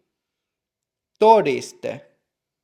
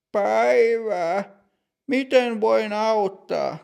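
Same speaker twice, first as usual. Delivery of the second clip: put-on higher, measured voice of a strict older clerk; stern bank clerk; 8 semitones higher than usual. Older bank clerk greeting customer Matti, stern and higher. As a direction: play the stern older teller, slow and proper.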